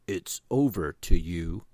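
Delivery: alien voice. Acted. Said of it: "the Calarkins still butchered Earth's languages".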